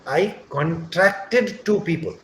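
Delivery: "contracted" stressed on TRAC, slowly; slow "contracted" with second-syllable stress; verb stress. Shown as a demonstration. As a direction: say "contracted" as con-TRAC-ted. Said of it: "That's how we will speak".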